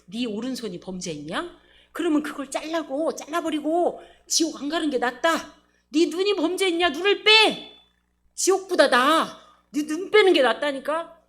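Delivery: a stern rebuke that swells as it goes; stern warning. Retold or imitated. The Lord quoted warning sinners, rising stern voice. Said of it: "주님이 그랬잖아요".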